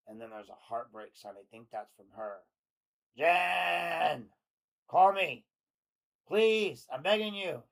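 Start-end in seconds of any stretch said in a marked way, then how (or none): 3.1-7.6 high, loud desperate yelling; shouted text. Acted. Host reading JD's exclamation-point texts as a high desperate scream. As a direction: scream every line like a desperate ex. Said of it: "Exclamation point".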